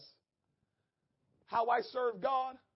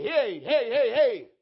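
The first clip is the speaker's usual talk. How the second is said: tag; 3 semitones higher, 11 dB louder, slower than usual. Acted. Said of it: "God had to meet him and say".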